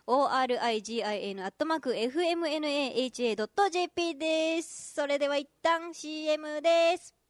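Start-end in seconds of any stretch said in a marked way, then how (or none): 0.1-4.9 the address オーアールアイジンアイエヌ spelled out letter by letter. Shown as a demonstration. Host spelling out the email address for listeners, letter by letter. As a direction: read out one letter at a time. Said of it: "spelling out the address letter by letter".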